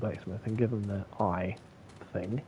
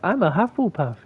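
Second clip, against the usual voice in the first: higher and louder, proudly announcing it; mock proud declaration; 8 semitones higher, 7 dB louder than usual. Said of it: "he's like".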